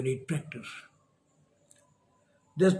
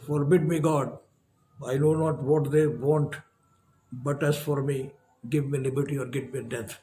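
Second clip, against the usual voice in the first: declaimed like a revolutionary speech, rising then hushed at the end; oratorical recitation. Acted. Lecturer reciting Patrick Henry's speech to students, declaimed. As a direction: deliver it as a patriot rousing the assembly.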